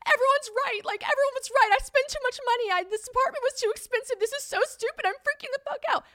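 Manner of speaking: high-pitched frantic rant; panicked meltdown. Retold or imitated. Ranting to a friend about the pricey apartment, panicked. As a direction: wail it out loud, re-enacting a meltdown. Retold money meltdown on phone.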